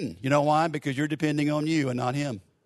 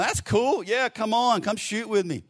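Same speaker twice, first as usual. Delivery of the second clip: higher-pitched, delighted yes; acted eager welcome; 7 semitones higher than usual. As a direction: play someone thrilled to be asked. Acted eager reply to star player.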